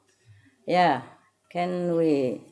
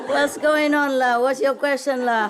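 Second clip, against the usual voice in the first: Singlish; 7 semitones higher, 5 dB louder than usual. Retold or imitated. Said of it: "You always have to say La at the end".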